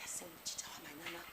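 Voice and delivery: very quiet, quick, low mutter; grumbling. Acted. Student griping once the angry teacher has left, muttered grumble. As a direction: grumble under your breath. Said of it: "궁시렁궁시렁 대기 시작하잖아요".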